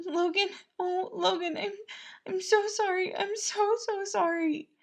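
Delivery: high, tearful broken apology; crying. Acted. Patton crying apologies into Logan's arms. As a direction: sob out the apology, halting. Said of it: "he cried".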